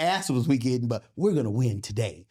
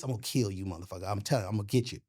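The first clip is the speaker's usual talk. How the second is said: quiet menace; 5 semitones lower, 5 dB quieter, much faster than usual. Retold or imitated. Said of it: "I'm like, when I learned this".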